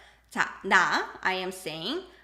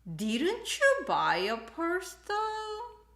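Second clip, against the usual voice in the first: slow pointed question; 9 semitones higher, slower than usual. Acted. Husband's accusing question translated.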